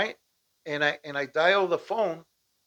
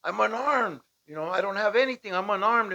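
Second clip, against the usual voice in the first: retold yell; 3 semitones higher, 4 dB louder than usual. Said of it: "I'm yelling at the top of my lungs".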